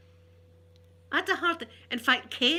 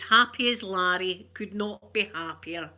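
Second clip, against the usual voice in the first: drawn-out cheer; 4 dB louder than usual. Retold or imitated. Quotes Marvin's cheery reply.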